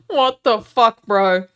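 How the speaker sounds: loud disbelieving outburst; stunned, loud and high; shocked. Real, not acted. Reacting to the search.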